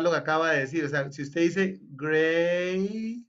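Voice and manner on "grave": grave said slowly ending on a clear v; final v. Shown as a demonstration. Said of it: "al final va una v".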